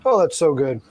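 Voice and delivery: repeated while chewing; mouth full. Real, not acted. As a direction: lips smacking, mouth full. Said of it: "Y'all get to hear me smacking my lips".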